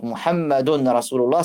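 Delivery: "muhammadun rasulullah" with the n of "muhammadun" heard; unassimilated form. Shown as a demonstration. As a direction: say the tanwin "un" fully before "rasulullah". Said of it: "Là, c'est muhammadun". ("muhammadun" avec le tanwin prononcé)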